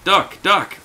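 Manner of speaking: high, loud repeated shouts; calling out. Pretend. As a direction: holler "Duck" like calling an animal. Calls the horse named Duck.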